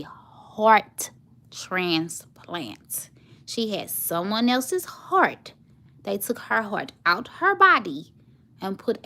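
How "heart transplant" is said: slow, breathy whisper. Real, not acted. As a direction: whisper it slowly and solemnly. Hushed emphatic repetition.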